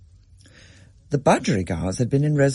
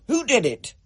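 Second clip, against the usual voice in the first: angry Dad; 13 semitones higher than usual. A narrator's reading. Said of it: "he said".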